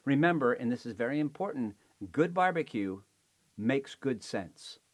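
upbeat announcer sign-off; show host outro. Acted. Show outro over music.

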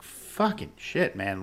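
drawn-out amazed cursing; amazed exclamation. Retold or imitated. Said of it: "I'm like".

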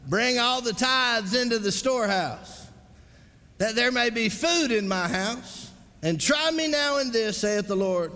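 ringing pulpit reading of scripture; scripture declamation. Real, not acted. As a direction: proclaim the verse to the congregation.

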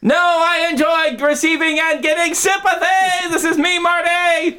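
very high, gleeful squeal; squeaky monster voice. Acted. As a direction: crow it like a smug imp.

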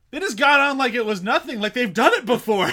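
high, loud laughing Pete voice; half-laughing Pete impression, up high; imitating Pete. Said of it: "you just hear Pete go".

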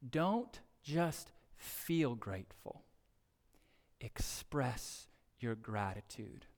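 each word slow and weighted, "Don't just feel grateful" drawn out; slow and emphatic. Shown as a demonstration. Pastor repeating his charge to the church, slow and weighted. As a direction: lean hard on "Express your gratitude", slowly. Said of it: "repeated application, slowed".

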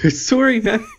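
high-pitched put-on Canadian apology. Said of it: "I don't know why I'm doing a voice".

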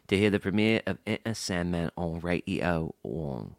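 lightly put-on British reading voice; mock British accent. Host reads British listener's email in a British accent.

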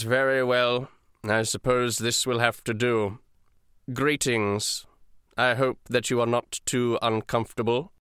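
ice-cold, formal official; measured, deliberate courtesy with little warmth; lightly voiced dragonborn. Dragonborn greeting his captives, coolly formal. Game master plays the silver dragonborn.

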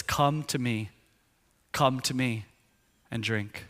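soft, hushed call to come; quiet invitation. Retold or imitated. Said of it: "it's the quiet moment".

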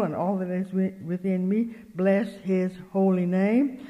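measured, devotional declaiming; psalm recitation. Real, not acted. Preacher reciting a beloved Thanksgiving psalm, devotional recitation. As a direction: recite it with drawn-out phrase endings.

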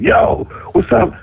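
retold eager, high-pitched hail; excited greeting. Young rapper hailing his idol at a club, excited. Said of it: "like, excited".

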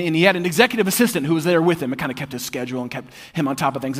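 ordinary talk, nothing marked

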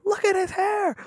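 very high, squealing mock voice; TikTok meme imitation. Friend quotes a favorite TikTok, high-pitched imitation. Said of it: "I love that TikTok so much".

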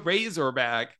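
"Razorback" said slowly in mock Aussie; accent attempt. Shown as a demonstration. Host retries the title for his guest in mock Aussie. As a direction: lean into "Razorback" with a laugh. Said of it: "That's pretty good".

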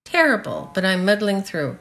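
mild tone of resignation; resigned. Shown as a demonstration. Teacher shows learners the meaning of a resigned reply, mildly resigned. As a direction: answer with understated resignation. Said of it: "in a tone of resignation".

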